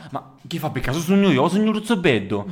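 loud, high Sicilian apostle; broad Sicilian question, loud; Sicilian accent. Acted. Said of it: "San Pietro fa".

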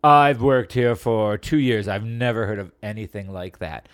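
a lightly done snooty British shop clerk; hint of a fake British accent. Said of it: "this guy with a fake British accent".

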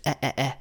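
short open "eh", as in yeah; "eh" like the vowel in bed; Danish A sound. Shown as a demonstration. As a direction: repeat "eh" as separate short vowels. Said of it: "the A sound at the end".

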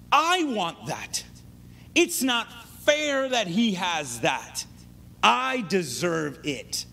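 slow, drawn-out entitled complaint; mock spoiled-kid demand; childish coveting. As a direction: stretch each word like a sulking child. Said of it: "still talk like that".

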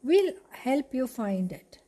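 lightly voiced little mouse, eager; a hint of a tiny helpful mouse; piping mouse voice. Mouse friends reassure Cinderella, lightly piping. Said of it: "piped up".

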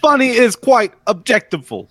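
"objectful" said as ob-JECT-i-ful, a made-up word; "objectful" blurted out as if a real word; odd word objectiful. Real, not acted. Friends mock the made-up word objectful. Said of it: "Did you just say objectiful?".

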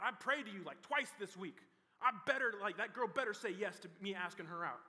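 loud, pushy demands to God; demanding prayer. Retold or imitated.

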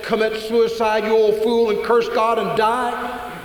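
high, slow scornful taunt; scornful wife mocking her husband. Wife mocking Job, high slow scorn. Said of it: "your wife has said".

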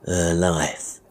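understated villain's sneer. Acted. Sweeney Todd mocking the boy's fear, sneering. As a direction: throw it back with mild scorn. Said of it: "sneered Sweeney Todd".

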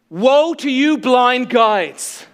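Jesus answering without missing a beat; stern woe. Retold or imitated. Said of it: "And Jesus goes".

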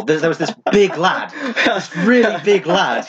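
chuckling while retelling the quote; laughing through it. Retold or imitated. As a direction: laugh through the words about the big lad. Retelling own story, laughing.

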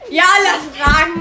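loud laughing, almost crying; laughing hard. Real, not acted. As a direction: barely get it out through laughter. Laughing hard during prank. (vor Lachen fast weinend)

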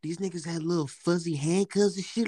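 usual speaking voice

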